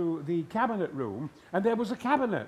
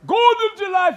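booming shout; 13 semitones higher, 13 dB louder than usual. Real, not acted. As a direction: roar it high and huge. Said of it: "Would you mind saying Gordon's alive?".

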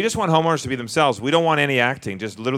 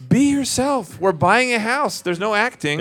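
exasperated plea; 8 semitones higher, slower than usual. Retold or imitated. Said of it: "I'm like".

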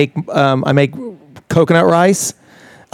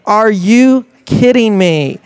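slow, higher, disbelieving drawl; incredulous; 6 semitones higher, much slower than usual. Retold or imitated. Watching Southern cooking shows, slow mock disbelief, higher. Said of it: "I'm sitting there going like".

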